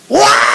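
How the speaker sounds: imitated sudden loud baby wail; long open wailing cry; baby's wail. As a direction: cry out "waah" like a newborn. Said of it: "dia langsung teriak".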